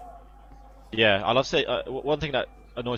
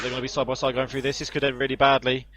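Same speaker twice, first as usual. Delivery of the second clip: excited live race call, higher; motorsport commentator; 3 semitones higher than usual. Acted. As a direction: call the battle as it unfolds.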